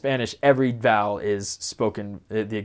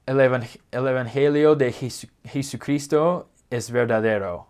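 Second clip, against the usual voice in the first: clunky American accent on the Spanish, hard R; exaggerated gringo Spanish. Shown as a demonstration. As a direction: say it like an American learner. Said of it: "with more of a gringo accent".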